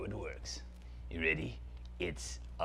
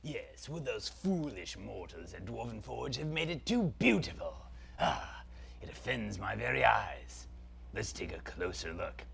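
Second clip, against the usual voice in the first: dark lord. Acted. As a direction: savour every word like an evil prince. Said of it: "Zaltar, Prince of Phantasm".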